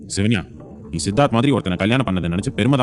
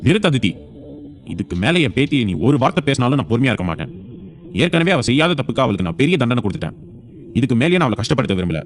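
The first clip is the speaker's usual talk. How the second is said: raised-pitch indignant warning; stern anger; 4 semitones higher than usual. Acted. Grandfather defending his wronged granddaughter against her sister, stern anger. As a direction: cut her off with firm indignation. Grandfather silencing Aditi in quarrel.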